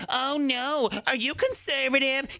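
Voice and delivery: high, fretful mock protest without real volume; mock yelling. Host mimicking viewers upset at his politics, high mock yell. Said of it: "you yelling like".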